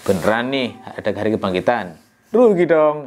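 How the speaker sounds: teacher imitating a scoffer, mildly mocking. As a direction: lightly scoff at the resurrection. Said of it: "ngomongnya kayak gini".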